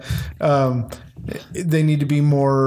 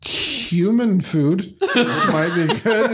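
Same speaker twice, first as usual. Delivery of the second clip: slow, higher-pitched hopeful suggestion; tentative request; 6 semitones higher, slower than usual. Retold or imitated. Slave asked what he wants, tentative request. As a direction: venture it slowly, higher, with a little laugh.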